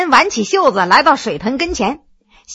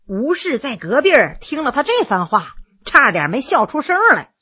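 ordinary delivery, nothing marked

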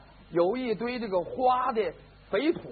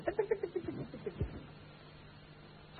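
light high patter of feet; very soft, staccato footstep noises; tiny retreating steps; imitated running footsteps; 9 semitones higher, 11 dB quieter, slower than usual. A narrator's reading.

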